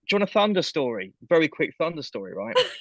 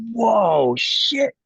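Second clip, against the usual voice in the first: starstruck; 7 semitones higher, 5 dB louder than usual. Retold or imitated. Starstruck reaction retold.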